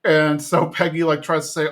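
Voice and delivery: ordinary delivery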